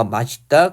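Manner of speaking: 맛있다 with the ㅅ linked over; 마싣따, with an s in the middle; permitted pronunciation. Shown as a demonstration. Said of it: "이렇게".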